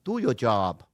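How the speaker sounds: "Do your job" off-target, not Boston; botched Boston "job"; failed Boston accent. Shown as a demonstration. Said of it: "Why was that Chinese?".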